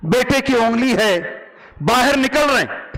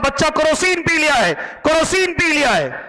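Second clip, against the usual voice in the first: retold loud plea; 5 semitones higher than usual. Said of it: "मैं जोर जोर से बोल रहा हूं".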